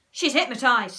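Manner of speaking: thrilled discovery; amazed. A narrator's reading. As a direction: exclaim in disbelief. Henry amazed his trick works.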